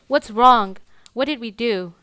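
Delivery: lightly acted parental distress; retold parental yelling. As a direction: mimic a mother's protesting questions. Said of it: "the screaming and the yelling".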